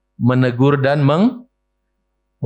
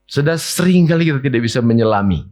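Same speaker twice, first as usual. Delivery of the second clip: ordinary talk, nothing marked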